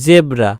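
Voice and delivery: "জেব্রা" opened with a buzzing z; half j, as z. Shown as a demonstration. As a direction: model "জেব্রা" with z, not j. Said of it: "বর্গীয় জ এর উচ্চারণ অর্ধ".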